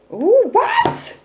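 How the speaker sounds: high, loud surprised ooh; startled by the card. Real, not acted.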